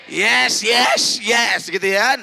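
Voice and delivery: shouted cheer; excited shout. Acted. Preacher hyping the young crowd, shouted cheer. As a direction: shout yes like a hype man.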